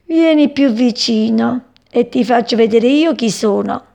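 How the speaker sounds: menacing cat thought. Acted. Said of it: "e pensò".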